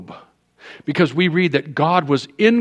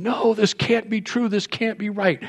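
mild disbelief; 8 semitones higher than usual. Retold or imitated. Bailiff shocked at payment.

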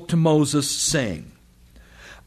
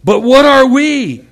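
much higher, slow, exasperated put-on voice; Moses; 12 semitones higher, 12 dB louder, slower than usual. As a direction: play him helpless and pleading, pitch way up. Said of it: "Moses says".

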